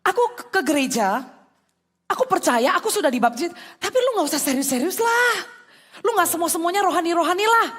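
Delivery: casual dismissive friend. Retold or imitated. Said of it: "teman itu suka ngomong begini".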